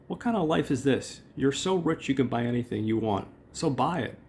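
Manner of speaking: high whiny nagging wife. Retold or imitated. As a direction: whine at him like a fed-up wife. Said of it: "She goes".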